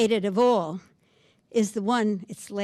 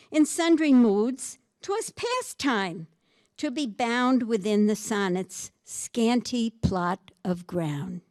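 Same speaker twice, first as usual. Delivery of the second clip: poem reading. Acted. Reading the sonnet aloud.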